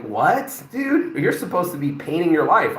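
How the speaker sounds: incredulous "dude?" leaping up high; playfully baffled, pitch jumping on "dude"; mock disbelief. Speaker chiding people settling for Netflix, mock disbelief.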